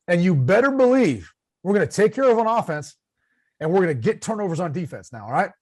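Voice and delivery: rally the reporters with obvious promises; mock coach. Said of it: "state the obvious and see who calls you out".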